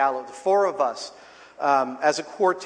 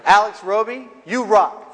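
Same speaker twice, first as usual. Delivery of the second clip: high, loud call-out; shout-out on request; 5 semitones higher, 8 dB louder, slower than usual. Shown as a demonstration. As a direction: proclaim it to an absent fan. Corrected shout-out performed on request.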